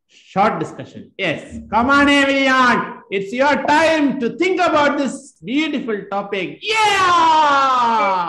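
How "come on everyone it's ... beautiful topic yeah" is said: high, loud rallying cry with a long drawn-out finish; rally the class with a high, loud shout; rousing class call. Real, not acted. Teacher urging everyone to think about the topic, rousing shout.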